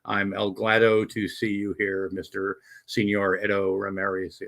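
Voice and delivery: half-hearted mock-Mexican accent; deliberately unconvincing Mexican accent, played for laughs. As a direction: barely attempt a joke Mexican accent. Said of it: "in my absolutely non-Mexican accent".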